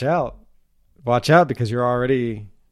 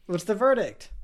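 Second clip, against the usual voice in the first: patient voice; 8 semitones higher, slower than usual. Pretend. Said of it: "I'll do both voices".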